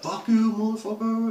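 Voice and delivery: high-pitched, strained swearing; acted angry cursing. Captive with loosened tape to his kidnappers, acted angry cursing. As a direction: curse your captors, re-enacted.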